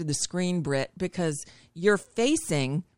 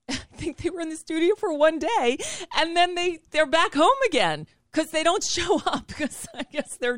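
amused disbelief; 9 semitones higher than usual. Real, not acted. Mocking anchors' one-day studio return.

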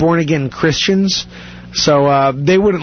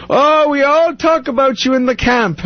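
put-on high, accented Ugandan voice; imitated Ugandan soldier; 8 semitones higher than usual. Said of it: "and then he'd be like".

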